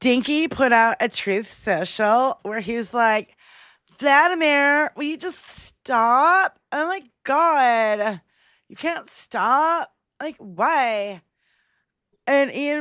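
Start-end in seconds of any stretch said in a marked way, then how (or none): 4.0-11.2 put-on teenage girl manner, "God" drawn out. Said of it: "reading this in a tone of a teenage girl".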